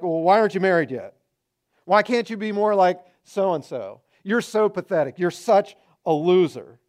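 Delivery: mock cutting insults. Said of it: "We say things to people like".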